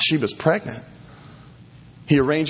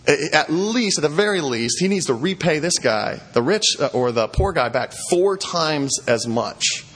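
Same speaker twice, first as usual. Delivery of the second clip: fired-up anger; 2 semitones higher than usual. Retold or imitated. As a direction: retell an indignant king laying down the law. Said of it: "David gets really fired up. He gets mad".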